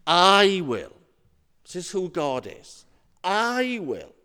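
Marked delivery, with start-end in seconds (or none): 0.1-1.0 loud, drawn-out "I" in "I will"; emphatic. Acted. Preacher voices God's promise to listeners, emphatic. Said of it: "this phrase is emphatic". 3.2-4.1 long, held "I" sliding down into "will"; emphatic. Acted. Preacher repeats God's promise, emphatic. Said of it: "this phrase is emphatic".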